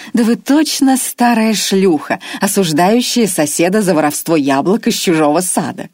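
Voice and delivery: sneering down at him; scornful Irma. Acted. Old woman scolding her captive with disdain.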